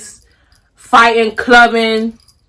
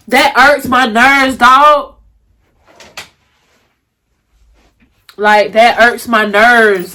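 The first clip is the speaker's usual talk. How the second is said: slow, emotional repeat; slower than usual. Real, not acted. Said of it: "I'm about to cry".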